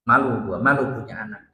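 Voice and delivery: lightly voiced mother grumbling about family shame; scolding Chinese mother. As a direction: mutter it like a disappointed mother.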